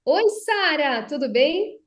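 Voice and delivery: slow, full projected greeting, not a yell. Shown as a demonstration. Speech coach demos projecting from the diaphragm, steady and full. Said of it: "Se eu só projeto a minha voz".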